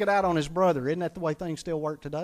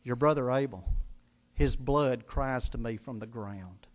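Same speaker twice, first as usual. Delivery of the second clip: much lower, quieter voice of God calling Cain; 8 semitones lower, 5 dB quieter than usual. Retold or imitated. God questioning Cain about his brother, low and quiet. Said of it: "And he says".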